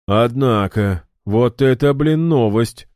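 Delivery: loud, high, stunned exclamation; floored by what he just heard; bewildered. A narrator's reading. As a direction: thrown by the news. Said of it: "растерялся Ильдар".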